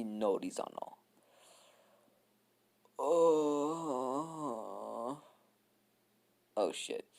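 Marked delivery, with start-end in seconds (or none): 3.0-5.2 yawn-like moan. Real, not acted. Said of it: "it was a yawn".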